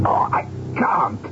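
unvoiced frightened whisper; hushed whispered refusal. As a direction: breathe it out in dread. Afraid to look again.

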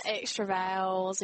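slow Southern drawl with extra vowels; Southern accent. Shown as a demonstration. North Carolinian showing off Southern speech, drawled Southern accent. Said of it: "They speak really slow or".

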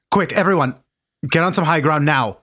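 put-on urgent order in a Newfoundland accent; rally everyone with a Newfie accent. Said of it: "It was his Newfie accent".

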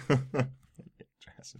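high, loud laugh on the word. Real, not acted. Laughing at co-host's joke.

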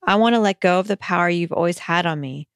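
measured, earnest read-aloud of a personal letter. Acted. Host reads a listener's letter to food, measured and earnest. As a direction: read it as a heartfelt letter, phrase by phrase.

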